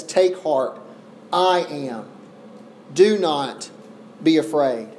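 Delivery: low, measured words with pauses between them; calm reassurance. Acted. Jesus to the frightened disciples at sea, calmly reassuring.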